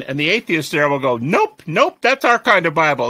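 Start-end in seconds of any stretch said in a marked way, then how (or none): 1.2-3.1 bright teasing nope nope; mock the crowd's glee, higher and louder; playful atheist reply. Atheist students teasing the speaker, playful. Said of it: "And they're all laughing".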